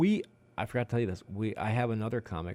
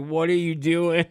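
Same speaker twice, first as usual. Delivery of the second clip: imitating appalled instructor; 7 semitones higher, 7 dB louder, slower than usual. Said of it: "her whole face is like".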